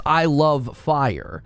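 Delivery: slow, drawn-out mock declaration; mocking quote. Streamer mocking what chat claims people say, drawn out. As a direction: stretch every word to ridicule it. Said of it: "wouldn't utter the sentence".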